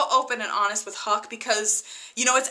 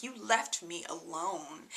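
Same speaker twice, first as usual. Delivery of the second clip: near tears; 5 semitones lower, 13 dB quieter, slower than usual. Retold or imitated. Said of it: "it's like she's almost crying".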